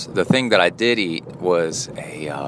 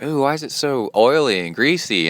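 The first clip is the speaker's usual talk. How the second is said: mock squeamish coworker; 6 semitones higher than usual. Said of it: "she's like".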